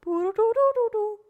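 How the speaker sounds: high beeping machine voice; robot voice. Pretend. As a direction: play a chirpy robot. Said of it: "You just probably talk like a robot".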